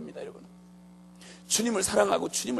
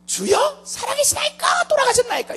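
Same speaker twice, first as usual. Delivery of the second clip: very high, raised imitation of pleading; mock desperate prayer; 5 dB louder than usual. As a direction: wail it as a parody of prayer. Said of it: "뭐라 그러는 거 아니?". (애타게 부르짖는 기도를 흉내 내며)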